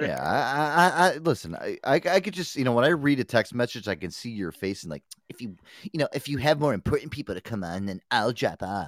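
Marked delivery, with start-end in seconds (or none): 5.3-8.9 sniffy, stuck-up, snotty, dismissive tone. Reading out a panelist's text message in a put-on snotty voice. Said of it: "I did not say it like that at all".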